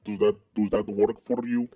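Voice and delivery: muddled Russian-Indian accent. Shown as a demonstration. Host asks if the voice works, Russian accent. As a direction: try out an uncertain Russian accent. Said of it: "what kind of accent this is".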